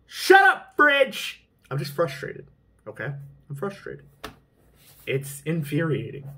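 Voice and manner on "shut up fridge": higher, louder snap at the fridge; sudden shout. Real, not acted. Vlogger yells at his noisy fridge mid-rant, real annoyed shout. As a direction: bark it out, fed up.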